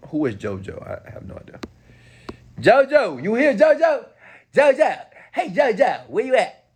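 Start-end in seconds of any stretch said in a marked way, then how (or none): 2.6-6.7 hollering a name, looking for someone; calling out. Real, not acted. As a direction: call out across the room for a friend. Calling out for JoJo in chat.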